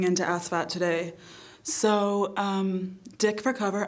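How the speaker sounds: a lightly voiced mock TV weather girl; perky forecast read with innuendo. Comic weather girl forecasting city to city, mock newscaster.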